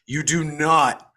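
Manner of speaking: "You do not" very slow, each word weighted; drawn-out, insistent "You do not"; emphatic repetition. Real, not acted. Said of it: "I'm gonna tell you this again".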